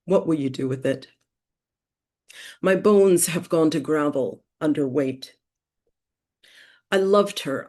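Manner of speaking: deliberate, phrase-by-phrase poetry recital; poem reading. Acted. Poet reading her poem Prayer to seminar listeners, deliberate poetry reading. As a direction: read it as verse, lifting the starts of lines and letting them fall. Reads own poem aloud.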